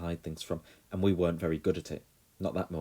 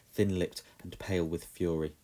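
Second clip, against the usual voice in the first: plain reading voice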